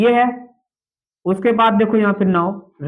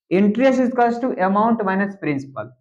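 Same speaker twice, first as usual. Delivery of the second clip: slow dictation; much slower than usual. Shown as a demonstration. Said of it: "teacher dictates formula slowly".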